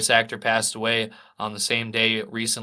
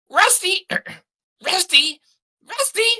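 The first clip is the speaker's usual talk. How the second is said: very high-pitched cartoon character impression; Sheen; 3 dB louder than usual. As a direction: call out in a squeaky, far-higher cartoon voice. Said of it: "let's see what I can do here".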